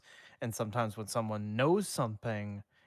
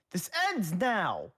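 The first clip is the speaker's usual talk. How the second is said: high, loud and slow ghostly declaration; 9 semitones higher, 5 dB louder, slower than usual. A narrator's reading. Danny declaring to the class, loud with ghostly undertones. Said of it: "Danny loudly declared".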